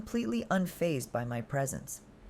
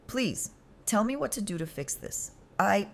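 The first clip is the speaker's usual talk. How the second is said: sobbing plea; 6 semitones higher than usual. Acted.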